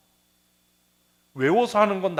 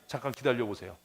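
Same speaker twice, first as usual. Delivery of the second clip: flustered believer. Retold or imitated. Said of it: "내 얘기를 해야지".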